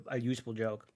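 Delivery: whispered aside. Real, not acted. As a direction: drop to a whisper. Aside to chat.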